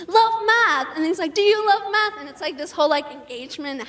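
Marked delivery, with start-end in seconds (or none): 0.1-0.9 high, louder mock-cheery teacher; bubbly math teacher. Math teacher cheering his class on, high and bubbly. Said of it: "bubbly and, like, happy". 1.3-2.2 high, louder mock-cheery teacher; bubbly math teacher. Math teacher cheering his class on, high and bubbly. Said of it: "bubbly and, like, happy".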